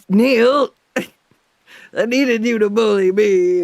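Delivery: high, loud plea broken by laughter; laughing plea. Acted. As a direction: beg him through giggles, voice up high. Pleading with her drawn seal.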